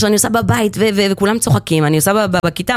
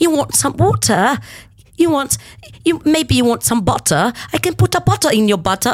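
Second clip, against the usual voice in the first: put-on higher-pitched British old woman voice; 6 semitones higher than usual. Doing an impression of a relative for an interviewer, imitating a British grandmother offering things to a guest. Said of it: "אני עושה חיקוי של הסבתא שלי הבריטית".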